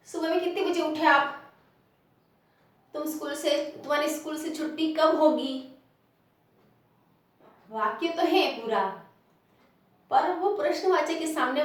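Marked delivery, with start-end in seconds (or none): 0.1-5.7 lifted question on कितने and कब; questioning tune. Shown as a demonstration. Teacher asks a sample question, in a questioning tune. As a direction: ask it outright, pressing कितने and कब. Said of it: "जैसे मैं किसी को प्रश्न पूछूंगी".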